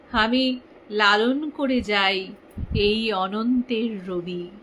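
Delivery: slow stately recital with long pauses; poem recitation. Acted. Reading her own poem to live followers, slow stage recitation. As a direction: savour each line of the poem. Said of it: "একটু পড়ি, তোমাদের কাছে একটু ভাগ করে নি".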